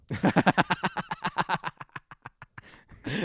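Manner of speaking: high burst of real laughter; cracking up out loud. Real, not acted. Laughing at Napoleon's letter.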